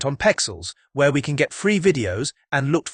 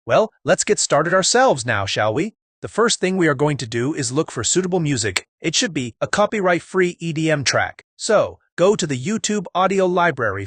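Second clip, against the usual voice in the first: put-on American accent, upbeat; 2 semitones higher than usual. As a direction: play an American YouTuber. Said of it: "Did you guys like my American accent?".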